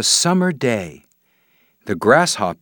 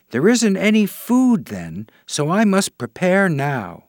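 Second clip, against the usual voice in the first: tiny marching ant; 8 semitones higher than usual. Acted. Ant explains winter preparation.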